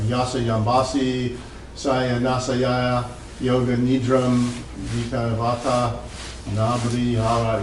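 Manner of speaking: slow, careful Sanskrit recitation, each syllable placed; careful Sanskrit reading. Shown as a demonstration. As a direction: sound the Sanskrit out slowly, syllable by syllable. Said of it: "I'm gonna try to read it in Sanskrit".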